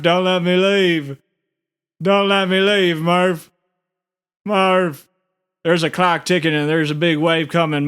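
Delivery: an amateur's lightly put-on Coop, begging Murph not to let him leave; Coop impression. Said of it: "let me give it a try".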